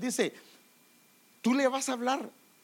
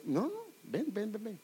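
gentle, coaxing call, softer and trailing off; not angry; 5 dB quieter than usual. Retold or imitated. Father coaxing his misbehaving child to come, gently. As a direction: soothe the child and call him over, unhurried. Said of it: "No enojado".

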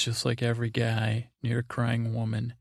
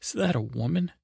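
brilliant scumbag's mock-incredulous question; high, snide retold jibe; Jaime; 6 semitones higher than usual. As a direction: lift the pitch and needle like a dirtbag. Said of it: "he plays such a brilliant scumbag".

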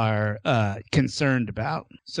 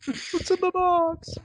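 Brad Pitt yelling impression. Quoting Seven movie line.

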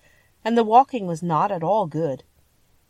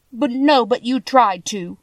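put-on indignant girl, higher and louder; retort; 5 semitones higher, 5 dB louder than usual. A narrator's reading. Dorothy answers back to the lion, indignant retort. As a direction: throw it back at them. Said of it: "she retorted".

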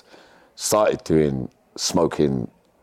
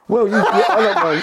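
laughing; 5 dB louder than usual. Real, not acted. Laughing at friend's claim.

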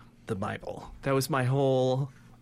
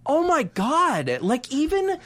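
mock heartbreak; 11 semitones higher, 4 dB louder, slower than usual. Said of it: "my heart broke for him".

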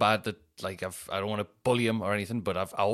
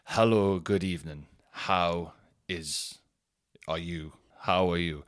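a drunk trying hard to sound sober, lightly played; carefully polite, slightly stumbling greeting; faking sober drunk; 3 semitones lower, slower than usual. Greeting hotel reception while pretending to be sober, lightly acted. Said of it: "my best sober drunk".

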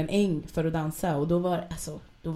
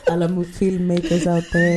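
laughing; 8 dB louder than usual. Real, not acted. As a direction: laugh while calling out to filmmakers. Skrattar åt filmidén. (skrattande utrop)

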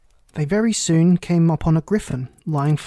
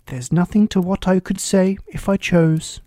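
pleased; 3 semitones higher, 5 dB louder than usual. Acted. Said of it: "in a pleased tone".

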